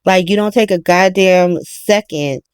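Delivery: low, lightly voiced moment of clarity; mock realization. Mother having a moment of clarity, low and hushed. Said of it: "where she's like".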